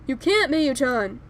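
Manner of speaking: loud, slow urgent warning; urgent shout. Acted. Hiyoshi blocking Mayu from turning back, loud and slow. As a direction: plant yourself and shout her down slowly.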